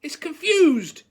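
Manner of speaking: high, loud, drawn-out shout. A narrator's reading. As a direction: shout it to the whole class. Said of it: "shouted Lupin".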